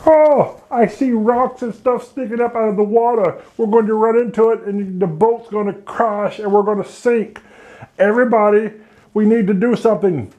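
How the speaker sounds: high, alarmed sailors seeing rocks; panicked sailors. Acted. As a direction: shout a warning in a panic.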